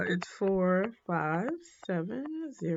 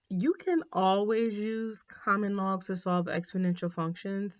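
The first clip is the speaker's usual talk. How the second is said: says functions by mistake; the first, wrong wording before the correction; misspoken word; 2 semitones higher than usual. Real, not acted. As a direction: slip of the tongue, functions. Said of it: "I should say equations here".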